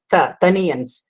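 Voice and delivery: "Taniyans" begun with the first Ta sound; first-varga Ta. Shown as a demonstration. Teacher explaining Tamil vargas, "Taniyans" with first-varga Ta. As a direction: sound "Ta" alone, then "Taniyans" with that same t. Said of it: "it is to be pronounced as".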